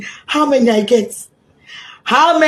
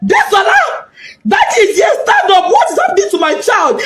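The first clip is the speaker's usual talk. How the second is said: high pleading call to the dead daughter; imitating a father's anguished shout; retold scream; 7 semitones higher than usual. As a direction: call her name, crying out. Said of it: "He screamed, shouted".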